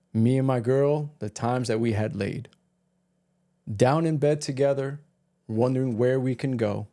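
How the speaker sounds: slow poem recital. Acted.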